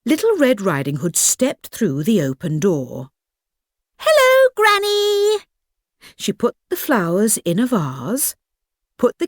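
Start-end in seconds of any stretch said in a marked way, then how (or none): 4.0-5.4 high, loud cheerful call. Acted. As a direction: call out brightly to granny. Girl calls out on entering.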